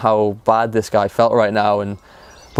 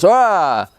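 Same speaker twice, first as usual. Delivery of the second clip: short high mock scream, not really loud; imitated scream; 7 semitones higher than usual. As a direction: mimic a coach's challenge scream. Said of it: "scream louder than me".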